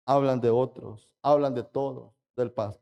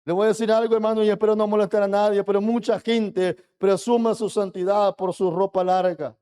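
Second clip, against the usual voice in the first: louder preaching; 5 semitones higher, 4 dB louder than usual. Real, not acted. Preacher raising voice to rebuke.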